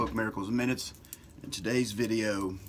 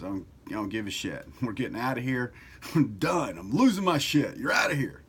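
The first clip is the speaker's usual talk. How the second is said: panicked croc brain; 2 semitones higher, 3 dB louder than usual. Acted. The croc brain panicking about a snake, rising alarm. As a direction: blurt it out like the primitive brain bailing. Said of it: "croc brain goes".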